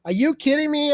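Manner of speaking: incredulous rise on the last words; mock disbelief. Answering the casting director in mock disbelief. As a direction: act shocked at the casting director. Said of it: "I looked at him and said".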